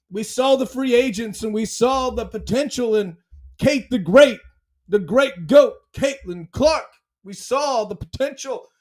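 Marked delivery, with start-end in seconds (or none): 3.6-6.8 loud, rising hype call; hype proclamation. Acted. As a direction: announce her like a champion. Hype proclamation of star player.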